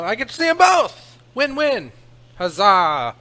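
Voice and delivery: sudden high, loud delight; excited. Real, not acted. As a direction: cheer it out, thrilled. Glad to see both decks.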